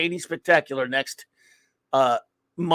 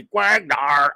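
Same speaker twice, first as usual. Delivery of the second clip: drawn-out name call, toned down; attempted copy of a hammed-up name call; Raquel; 4 dB louder than usual. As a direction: imitate a friend's signature shout, half-hearted. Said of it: "as Raquel would say".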